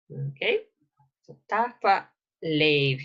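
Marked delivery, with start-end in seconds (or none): 1.5-3.0 "Tach pa leiv" with the H at the end of "Tach" left unsounded; silent final H. Shown as a demonstration. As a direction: say "Tach pa leiv" slowly, not pronouncing the H that ends "Tach". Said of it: "You don't pronounce the H at the end of the first word".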